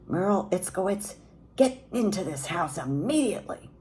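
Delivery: high, sharp call to come indoors; mother's scream. A narrator's reading. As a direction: shout the full name across the yard. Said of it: "I heard my mother scream".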